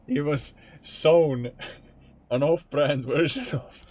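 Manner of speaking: first try, choking on laughter; struggling through laughter. Real, not acted. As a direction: fight the giggles to get it out. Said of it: "I'm laughing, and I'm struggling to say it".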